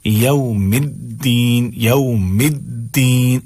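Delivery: "الدین" slow, with a firm doubled d; clear daal. Shown as a demonstration. Teacher modelling for learners, slow clear daal. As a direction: draw out "یوم الدین" keeping the d voiced. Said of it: "دال ہی ادا کریں".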